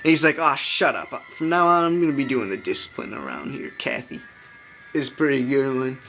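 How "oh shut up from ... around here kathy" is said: lightly acted scolding dad; mock scolding. Movie dad to Kathy about discipline, mock scolding. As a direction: imitate a father laying down the law. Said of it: "scolding the kids".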